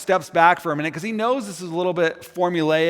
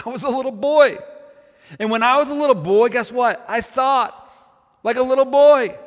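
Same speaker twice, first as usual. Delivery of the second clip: raised, louder, building conviction as Paul; impassioned preaching; 7 semitones higher, 5 dB louder than usual. Acted. Paul telling the church about his childhood, in a raised, ringing voice. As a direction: preach it out high and strong, pressing each line.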